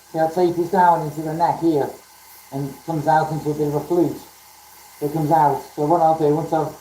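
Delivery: muffled through a face mask; talking through a dust mask; through a plague doctor mask. Real, not acted. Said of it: "Can you hear me okay with the mask on?".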